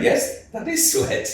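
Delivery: high, slow, airy mock announcement; mock deadpan voice. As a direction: drawl it like a solemn discovery. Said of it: "and it was like".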